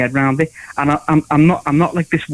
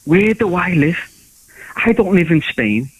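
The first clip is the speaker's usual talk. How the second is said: ranting inner monologue; 2 semitones higher than usual. Retold or imitated. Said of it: "I thought to myself".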